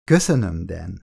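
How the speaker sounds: sweet, overly innocent thanks fading away; syrupy innocent thank-you; calculated innocence. A narrator's reading. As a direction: play the innocent, sugar-sweet. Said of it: "a tőle telhető legnagyobb kiszámított ártatlansággal".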